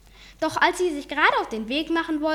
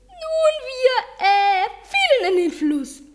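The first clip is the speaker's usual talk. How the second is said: nervous; 11 semitones higher, 6 dB louder, slower than usual. Acted. Guckte ein wenig nervös.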